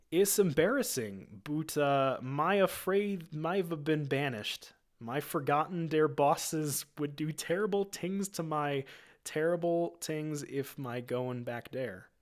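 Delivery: high, slow, sheepish Gungan voice; embarrassed Jar Jar. Acted. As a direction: admit the banishment slowly, ashamed. Jar Jar voice, ashamed.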